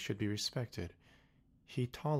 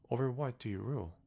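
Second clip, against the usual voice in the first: little prince asking; 4 semitones higher, faster than usual. Acted. Prince questions the king.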